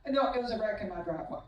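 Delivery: fast, laughing through the punchline. Real, not acted. Coach giving the punchline to the crowd, fast and laughing. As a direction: tell it while cracking up.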